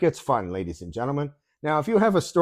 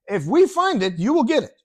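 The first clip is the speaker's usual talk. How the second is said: put-on higher, emphatic French-Arab accented English; imitated clerk's accent; 7 semitones higher, 4 dB louder than usual. Clerk swears to customer, imitated French-Arab accent. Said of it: "this is how he says it".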